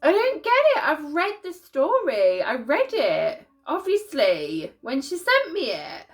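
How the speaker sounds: high, loud, tearful apology; really crying, baffled and laughing at yourself. Real, not acted. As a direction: wail it through tears, pitch swooping up. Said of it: "why am I crying now".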